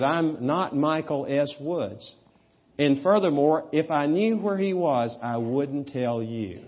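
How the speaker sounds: slow, firm "I wouldn't tell you" with a laugh at the end; a smug refusal, half laughing; mock-stubborn comeback to the collector; defiant retort. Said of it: "Now that's bad, isn't it?".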